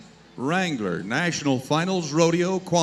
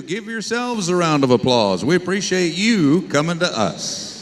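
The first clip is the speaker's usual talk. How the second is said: loud; 7 dB louder than usual. Real, not acted. Thanking crowd.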